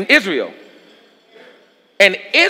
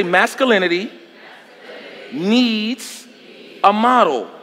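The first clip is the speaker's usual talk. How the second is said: slow, weighted repeat line; preacher's drawn-out echo line; call-and-response line; 4 dB quieter, slower than usual. Shown as a demonstration. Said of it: "Somebody say".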